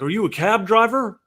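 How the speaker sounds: imitating the guy. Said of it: "He's like".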